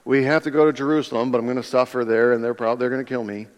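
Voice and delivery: quick, resigned mumbling-through of bad news; imitated fatalist, fast and sinking; cynical, fatalistic. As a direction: rattle it off as if doom is settled. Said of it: "he's having this cynical outlook".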